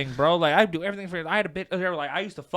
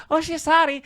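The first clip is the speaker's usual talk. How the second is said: startled apology; 13 semitones higher, 9 dB louder than usual. Retold or imitated. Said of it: "she went".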